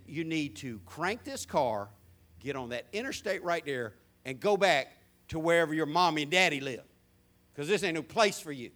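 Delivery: low, measured cop's order; stern warning. Retold or imitated. Cop sending a young man home, stern warning. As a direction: lay down the order low and deliberate.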